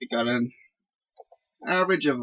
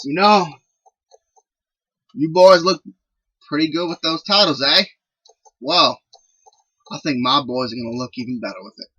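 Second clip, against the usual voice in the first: put-on loud Southern-accented promo, pitched up at the start; 2 semitones higher, 6 dB louder than usual. Scott D'Amore taunting the champions about their titles, Southern accent. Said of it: "I don't know why he's southern accent right there".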